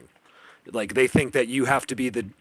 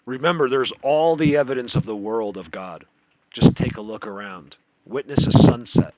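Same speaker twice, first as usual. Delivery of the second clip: louder preaching voice; 6 dB louder than usual. Real, not acted. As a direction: preach it out to the viewers. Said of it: "I just preach here".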